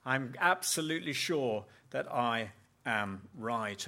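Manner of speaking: self-righteous insistence. Retold or imitated. Religious person answering the Lord, self-righteously loud. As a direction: insist you are right to be angry. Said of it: "the answer of a religious person ... is".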